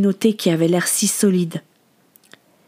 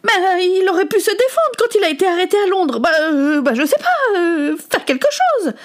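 high, wailing protest, stumbling for words; whiny, heated outburst on the edge of tears; fury; 11 semitones higher than usual. Acted. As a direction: argue back in distraught exasperation. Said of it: "La fureur que Samuel".

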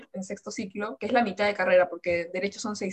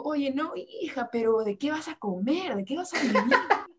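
worried mother; 5 semitones higher than usual. Retold or imitated. Mother voiced objecting to career.

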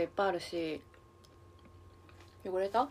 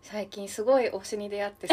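laughing; 5 dB louder than usual. Real, not acted. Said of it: "もうほんとすごい推しに出会ったよね".

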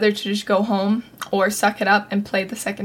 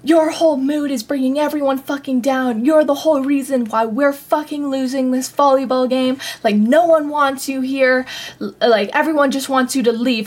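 mock tirade, higher pitched, moderately raised voice; retold angry screaming; 4 semitones higher than usual. Friend blaming the speaker for losing, retold as an angry mild yell. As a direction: imitate someone yelling accusations, without full volume. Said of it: "she's screaming this".

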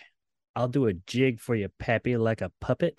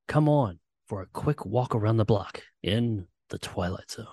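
Twilight Zone narration; 3 dB louder than usual. Shown as a demonstration. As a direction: intone it like the show's closing narrator. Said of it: "close us out, Jacob".

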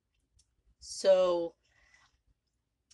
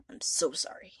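whisper. Real, not acted. Apology whispered aside.

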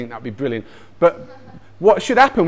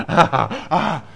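short re-enacted "ah" of pain; mock groans of pain. Dad re-enacting his ankle injury for listeners, mock groaning. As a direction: act out groaning while clutching a sore head. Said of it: "holding my head, going".

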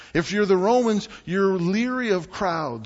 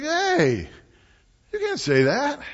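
scolding parent; 10 semitones higher, 3 dB louder, slower than usual. Retold or imitated. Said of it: "you'd be like".

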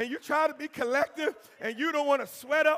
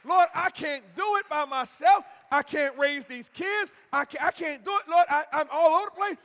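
louder pleading, voice pressed with need; desperate pleading prayer; 3 semitones higher, 5 dB louder than usual. Pretend. Preacher voicing a desperate believer, loud pleading prayer. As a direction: beg God as if you can't go on alone.

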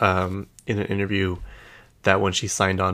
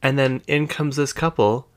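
normal talking voice

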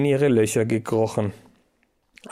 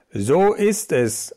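slow, higher, booming agreement; trumpeting; 4 semitones higher, slower than usual. A narrator's reading. The fat mouse backing the boss, a slow trumpeting reply. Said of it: "trompetete die dicke Hermann-Maus".

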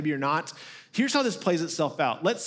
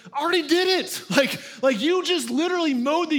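exasperated disbelief; 10 semitones higher, 4 dB louder than usual. Retold or imitated. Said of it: "And I was like".

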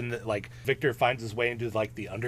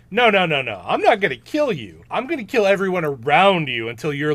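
much louder and higher, yelling the refusal; creature's furious shout; 4 semitones higher, 9 dB louder than usual. Retold or imitated. The creature yelling his threat back at Victor, furious shout. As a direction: roar it at him like a vengeful monster. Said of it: "of course the creature's like".

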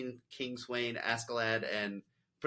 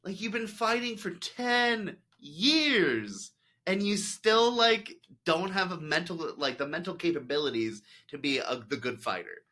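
exasperated; 5 semitones higher than usual. Retold or imitated. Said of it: "I'm like".

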